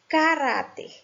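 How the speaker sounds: "Caráter" with weight on middle RÁ; stress on RÁ. Shown as a demonstration. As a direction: stress the penultimate syllable of "Caráter". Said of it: "a sílaba tônica tá na penúltima".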